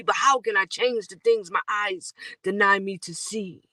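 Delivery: rhythmic, quick spoken-word delivery; spoken-word poem. Acted. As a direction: drive the rhymes forward like a performance poet. Recites spoken-word verse.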